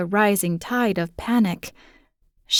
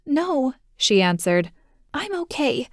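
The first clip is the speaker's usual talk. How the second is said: put-on small child voice; 5 semitones higher than usual. Girl answering her father.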